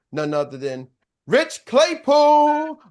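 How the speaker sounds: slow build to a high, loud name; big announcer introduction. Real, not acted. Host bringing on a star executive, announcer build-up. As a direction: stretch out the guest's name like an announcer.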